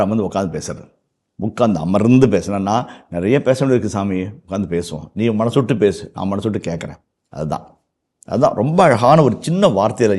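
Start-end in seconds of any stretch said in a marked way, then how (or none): 3.1-7.0 intimate, tender. Retold or imitated. Heart-to-heart with God.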